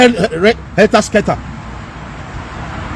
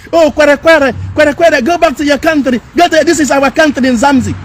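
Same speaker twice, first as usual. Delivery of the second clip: slightly higher, mocking imitation of a South African; mimicked South African locals; 3 semitones higher than usual. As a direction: imitate locals telling a foreigner to leave. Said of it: "when they see you in South Africa and they say".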